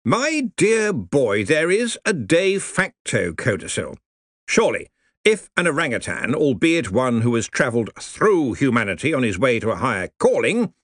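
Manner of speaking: genial senior wizard, pleased; beaming old wizard. Acted. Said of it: "Mustrum Ridcully beamed".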